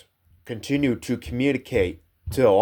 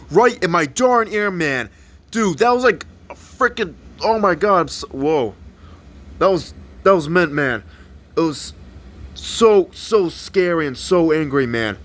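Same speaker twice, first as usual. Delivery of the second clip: high, rattled exclamations; very excited; 4 semitones higher than usual. Acted. Brady tells friends about the yell in his ear, very excited. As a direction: stammer it out, still worked up. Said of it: "Brady got so excited".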